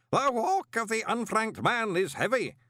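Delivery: high, solemn ritual intoning; booming intonation. A narrator's reading. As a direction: intone it grandly to an unseen assembly. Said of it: "the booming voice intoned".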